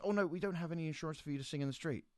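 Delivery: fussy steward. Retold or imitated. Steward telling the singer there is no insurance, high flustered voice. Steward refusing street performance.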